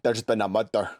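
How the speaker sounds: repeated stock Glaswegian line; Scottish accent. Shown as a demonstration. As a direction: give the catchphrase in an attempted Glasgow accent. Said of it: "That's usually the common one".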